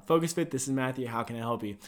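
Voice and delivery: low, quiet front-desk phone greeting; routine phone greeting. Shown as a demonstration. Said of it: "How do you answer the phone?".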